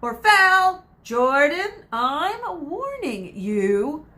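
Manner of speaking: loud, high, rushed correction; excited commentary. Acted. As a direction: catch yourself mid-rant. Commentator swaps word under scolding.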